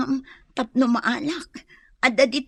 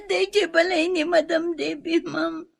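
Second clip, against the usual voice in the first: crying answer; 3 semitones higher than usual. Acted.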